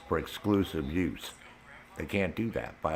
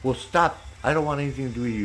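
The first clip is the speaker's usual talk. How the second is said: mocking her voice; 6 semitones higher, 3 dB louder, faster than usual. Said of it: "she goes".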